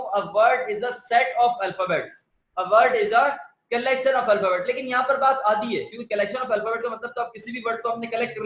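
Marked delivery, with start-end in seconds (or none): 0.0-4.7 very slow, word by word definition; slow dictation. Shown as a demonstration. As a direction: read the definition out slowly. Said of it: "word की definition मैं पढूं".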